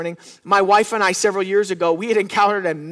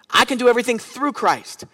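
"through" weighted as the key word; stress on through; 3 semitones higher than usual. Shown as a demonstration. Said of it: "the emphasis ... on the word through".

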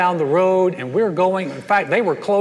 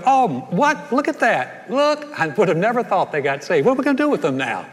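much higher, a hammed-up gasp of shock; mock surprise; 5 semitones higher than usual. God pretends shock to the angels at a new believer, mock surprised. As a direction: play God caught off guard, tongue in cheek. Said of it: "He didn't look at any of the angels and go".

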